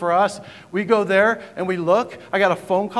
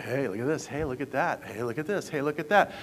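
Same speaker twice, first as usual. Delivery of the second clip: mock Instagram poster; 4 semitones lower, 6 dB quieter than usual. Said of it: "It's just like".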